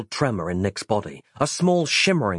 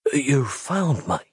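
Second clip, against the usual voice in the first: slow, croaky grateful voice; croaking; 2 semitones higher, slower than usual. Acted. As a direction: croak it out slowly, moved. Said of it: "his voice croaking".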